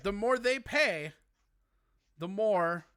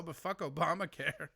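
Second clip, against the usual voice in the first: softer, offhand politician's slogan; mock Republican politician; 4 semitones lower, 5 dB quieter than usual. Mocking the Republican Party, lightly voiced offhand pundit. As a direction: toss off fuck Obamacare with a shrug. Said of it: "Republican Party talking about healthcare".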